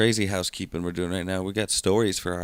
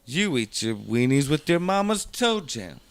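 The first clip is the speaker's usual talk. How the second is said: put-on Sandlot kid taunt; 4 semitones higher, slower than usual. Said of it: "That's from Sandlot".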